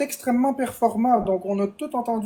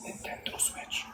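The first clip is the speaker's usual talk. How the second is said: faint, very soft, barely-there whisper. Showing how sensitive the microphones are: whispered. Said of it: "je vais chuchoter".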